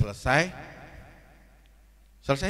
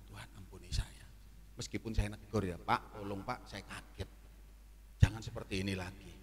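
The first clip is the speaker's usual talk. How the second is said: doa menyesal; 6 semitones lower, 8 dB quieter than usual. Retold or imitated. Menirukan doa minta ampun dalam hati.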